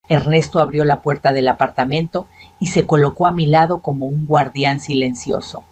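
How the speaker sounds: usual speaking voice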